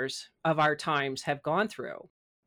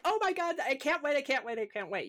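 high, breathless giddy squeal of excitement; retold giddy excitement; 8 semitones higher, 4 dB quieter than usual. Speaker recalls being excited today, squealing high. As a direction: gush like you can't contain it.

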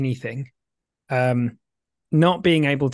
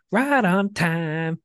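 slow, higher sing-song strange voice; 4 semitones higher, much slower than usual. Pretend. Guest repeats the phrase in a strange slow voice. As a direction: stretch it out in an odd put-on voice. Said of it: "Was that in a Japanese accent?".

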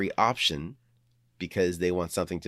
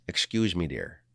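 playful tweaked voice; 2 semitones lower than usual. Shown as a demonstration. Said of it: "I just tweak my voice a little better".

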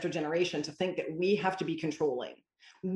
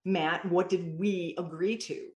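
put-on slow, even question to a child; a calm mother asking her son what they agreed; calm parent voice; slower than usual. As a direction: ask it slowly and gently. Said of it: "calmly walk over and say".

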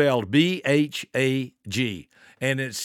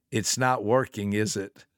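low, softer, matter-of-fact retold remark; calm, not mean; 5 semitones lower, 4 dB quieter than usual. Adult to boy mid-tantrum, calmly unimpressed. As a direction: say it simply, without any meanness. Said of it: "I wasn't ugly, mean, or hateful".

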